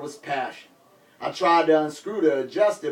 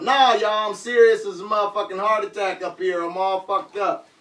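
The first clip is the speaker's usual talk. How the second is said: yelled; 4 semitones higher than usual. Retold or imitated. Raging rapper yelling at the crowd, mild yell. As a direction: insist on being hurt.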